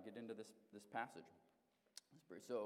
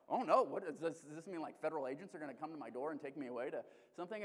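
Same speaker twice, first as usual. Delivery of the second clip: mock fear, fast and anxious; retold panic; 4 dB louder than usual. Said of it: "I got scared".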